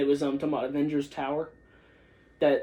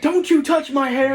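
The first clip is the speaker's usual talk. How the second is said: high, loud indignant cry; mock yell; 9 semitones higher, 6 dB louder than usual. Protest it loudly, half-joking. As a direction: Thor protesting before his hair is cut, hammed-up shout. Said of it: "he's like".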